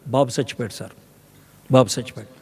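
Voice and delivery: low, quiet grief-stricken cry of a mother; mother mourning her dead son, sobbing to the prophet; distraught. Acted. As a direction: say it broken by the loss of her son. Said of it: "అని కూల్గా అని ఉండదు".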